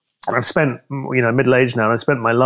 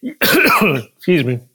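choking; 5 semitones higher, much slower than usual. Real, not acted. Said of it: "Choking with the emotion of it all".

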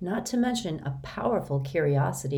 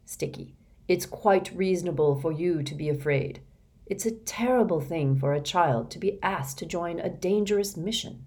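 gentle. Acted. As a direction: gently reassure a frightened boy. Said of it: "Mister Benedict spoke gently".

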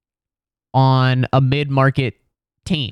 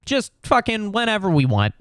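high, fast, smug brush-off; mocking the NBA's scheduling, high and smug; smug mock league voice; 7 semitones higher, faster than usual. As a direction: toss it off like a league suit who can't be touched. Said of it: "and so they're like".

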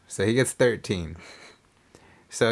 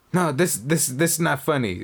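pissed off; 5 semitones higher than usual. Retold or imitated. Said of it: "proceeded to play pissed off".

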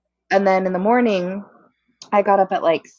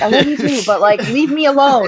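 higher, half-laughing, fed-up plea; fond exasperation; 6 semitones higher, 5 dB louder than usual. Retold or imitated. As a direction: brush off a brother you love. Fond but fed up, retold.

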